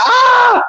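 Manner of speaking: high, loud imitated scream; hammed-up horror scream; mock scream. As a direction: scream along with the victim. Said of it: "I'm screaming with him".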